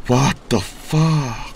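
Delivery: extremely stretched swear; slow drawn-out curse. Real, not acted. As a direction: drag every word out. Dragged-out English curse. (아주 늘여서 욕하기)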